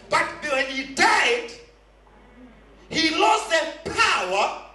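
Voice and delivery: forceful sermon delivery; preaching. Real, not acted.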